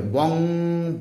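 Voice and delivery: বং with a held hum, then ব stretched long; teacher drawing out ব to show its অ; careful pronunciation demo. Shown as a demonstration. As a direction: sound out বং and ব, lingering on each. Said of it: "উচ্চারণটা ভালো করে করবে".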